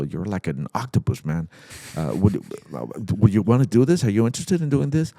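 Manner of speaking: eager, animated phone pitch, rising at the end; excited caller. Retold or imitated. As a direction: pitch it like an excited friend calling. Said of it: "I hear him very excited".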